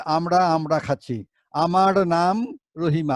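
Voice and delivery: a hint of a girl putting on style, slow and stretched; stylish girl talk. Teacher imitates girls who say their name with affected style. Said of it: "একটু style করে বলতে চায়".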